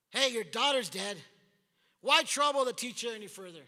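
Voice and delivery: loud, careless announcement; callous messenger. Retold or imitated. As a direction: toss out the death like nothing. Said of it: "insensitive is that".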